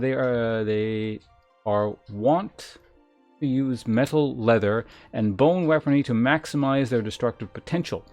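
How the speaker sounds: emphatic, measured reading of lore; game text read-aloud. Acted. Streamer reads gladiator class lore to chat, emphatic read-aloud. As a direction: announce each class description with weight.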